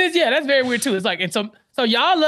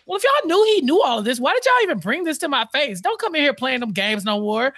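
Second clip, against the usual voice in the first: mock scolding judge; 4 semitones higher than usual. Judge scolds lawyers, retold.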